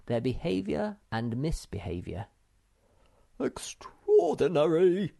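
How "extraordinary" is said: breathy whisper, slow; awed whisper to himself over his book; muttering. A narrator's reading. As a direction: marvel under your breath. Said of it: "he was muttering".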